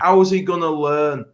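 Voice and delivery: indignant. Real, not acted. Indignant rhetorical question.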